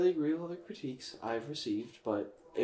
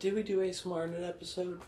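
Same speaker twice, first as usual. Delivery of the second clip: whisper; 4 semitones higher, 6 dB quieter, faster than usual. Pretend. Whispering after ASMR joke.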